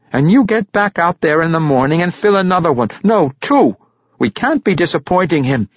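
put-on high, pushy drunken father's voice; drunken halfling father, insistent. Drunk father sending his son back out, insistent.

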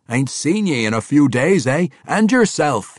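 loud, high dwarf voice; a dwarf king bantering with an old friend; gruff dwarf king. Acted. Bruner answering Athrogate, loud and hearty.

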